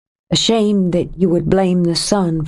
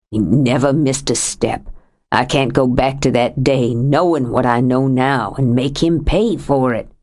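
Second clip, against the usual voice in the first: lightly voiced older man, lower, heavy with grief; a lightly lowered voice for a grieving husband; grieving Sam; 4 semitones lower than usual. Sam's helpless anger.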